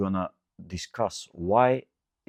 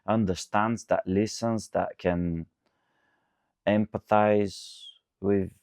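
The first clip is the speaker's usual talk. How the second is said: softer, mildly mocking retold reply; mocking a girl's answer; 3 dB quieter than usual. Host mimics a girl explaining emotional intelligence, softer mild mockery. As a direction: lightly voice her vague answer, softer. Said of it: "Just some stupid answer".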